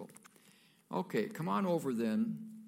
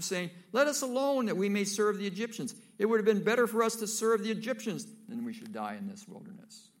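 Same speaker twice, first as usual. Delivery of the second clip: higher and louder, building to a wail; angry outcry; 7 semitones higher, 6 dB louder than usual. Acted. Trapped Israelites screaming at Moses, rising fury.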